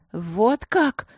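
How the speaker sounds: a touch of choked outrage; understated indignant gasp; breathless indignation. Acted. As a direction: gasp it, offended. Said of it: "задохнулась от возмущения Анюта".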